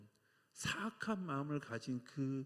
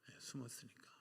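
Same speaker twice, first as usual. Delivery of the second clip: soft whispered repeat of 숨었으니까; whispered answer; 14 dB quieter than usual. Real, not acted. Pastor whispering the answer back to the congregation.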